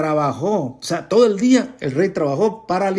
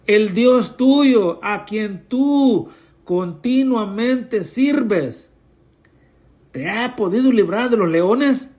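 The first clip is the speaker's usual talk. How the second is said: slow, higher anxious plea; sad calling out; 4 semitones higher, slower than usual. Acted. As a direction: call anxiously into the den. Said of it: "llamó a voces a Daniel con voz triste". (súplica triste, lenta y aguda)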